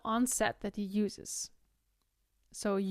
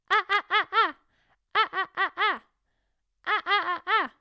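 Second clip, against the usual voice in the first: high, loud ha, each cut by closing cords; teacher adds vocal-cord closing to the high ha; high ha with glottal closing; 9 semitones higher, 7 dB louder than usual. Shown as a demonstration. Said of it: "add on the closing of the vocal cords".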